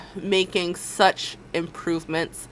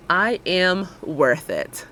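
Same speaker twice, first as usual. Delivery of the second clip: slow affirmation; much slower than usual. Shown as a demonstration. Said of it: "say it with me".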